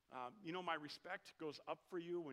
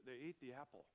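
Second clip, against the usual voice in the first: mocking others; 3 semitones lower, 6 dB quieter than usual. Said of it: "they're always like".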